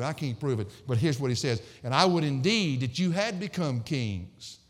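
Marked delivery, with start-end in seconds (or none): 1.8-4.6 mock-earnest wish, stretched out; sarcastic. Preacher reading Paul's wish to Corinth, sarcastic. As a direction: lift the pitch gradually through a wry wish. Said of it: "I think this is even sarcastic too".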